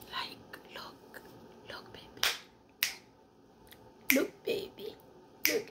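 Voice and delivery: hushed whisper; barely audible whispered aside. Pretend. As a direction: whisper it very softly.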